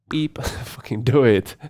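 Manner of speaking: loud, slow, self-censored motto; emphatic. Retold or imitated. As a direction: punch out the mantra with a laugh.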